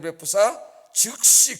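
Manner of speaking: very loud, slow and drawn out; desperate plea. Acted. Preacher voicing Moses begging God in despair. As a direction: stretch out the word in despair. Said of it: "구하옵나니".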